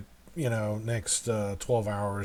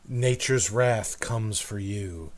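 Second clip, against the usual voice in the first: solemn prophecy. Acted. Game master speaking for white-eyed gnome, lightly solemn prophecy. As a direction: intone it as a grave warning.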